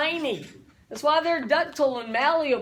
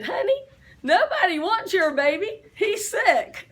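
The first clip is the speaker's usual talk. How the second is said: mocking the nurse; 6 semitones higher than usual. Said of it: "and she said".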